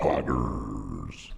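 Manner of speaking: very low, rough, filtered demonic growl. Saying a word a viewer asked for: demon voice filter. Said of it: "can you say poggers with the demon filter?".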